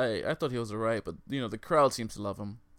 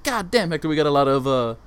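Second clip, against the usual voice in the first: loud sultry ad-read voice; 6 dB louder than usual. Pretend. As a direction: seductive commercial pitch, pushed loud. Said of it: "while I got you here in my sultry voice".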